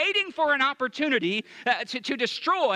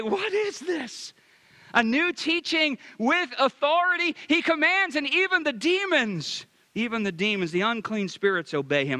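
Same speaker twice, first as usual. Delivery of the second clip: astonished crowd; 3 semitones higher than usual. Retold or imitated. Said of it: "I love what they say".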